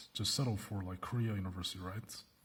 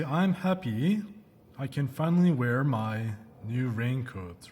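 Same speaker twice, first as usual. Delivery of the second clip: mock excited; 4 dB louder, slower than usual. Shown as a demonstration. Teacher models a happy reaction.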